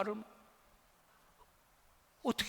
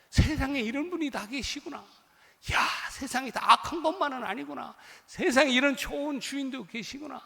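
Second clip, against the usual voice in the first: amazed gratitude; 7 semitones higher, 5 dB louder than usual. Retold or imitated. Overjoyed worker's amazed thought.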